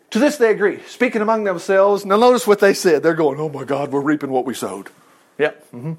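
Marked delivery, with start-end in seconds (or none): 3.4-5.9 low, soft mutter of dread; understated guilty dismay; hushed dismay. Acted. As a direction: say it quietly, as a sinking realization. Brothers' dismayed private talk.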